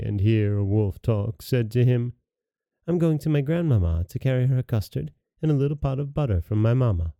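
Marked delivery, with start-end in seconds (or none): 2.9-7.1 a hint of an innocent child, quick and higher; lightly girlish, hurried reply; lightly voiced little girl. Little girl telling the wolf her errand, lightly voiced.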